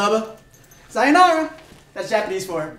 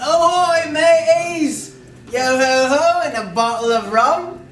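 hammed-up pirate British accent, loud; a mock British pirate bellowing ahoy; 5 semitones higher, 5 dB louder, slower than usual. The speaker shows off his British pirate accent, hammed up and loud. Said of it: "This is my British accent".

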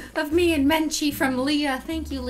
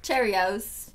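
put-on Australian accent. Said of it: "Do an Australian accent".

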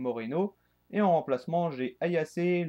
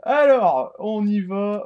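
energetic launch; 7 semitones higher, 10 dB louder, slower than usual. Real, not acted. Launching the match.

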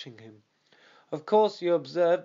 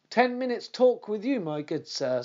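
sweet voice; 7 semitones higher, 3 dB louder than usual. Acted. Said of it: "in the sweetest of voices".

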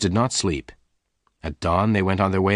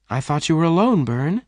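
taken aback; 8 semitones higher than usual. A narrator's reading. Jane startled at seeing Bess.

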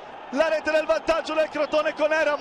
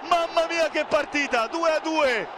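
breathless italian goal commentary; 4 semitones higher than usual. Real, not acted. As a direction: roar the equaliser out. Equaliser, shouted goal call.

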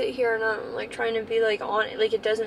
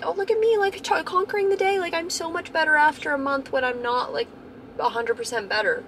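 much higher, sing-song mock of a falsely upbeat self; mocking fake cheer; 7 semitones higher than usual. Mocking herself pretending to be fine on camera, high sarcastic cheer. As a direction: parody the fake-positive vlogger voice. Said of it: "and I'm like".

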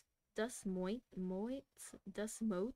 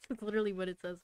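fast, giggling remark to listeners; can't help laughing at the book; laughing aside; much faster than usual. Real, not acted. Reader tells listeners through real laughter.

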